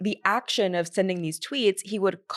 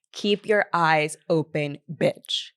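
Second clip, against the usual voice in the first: slow sassy repeat; 2 semitones lower, slower than usual. Retold or imitated. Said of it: "I think about it literally every day".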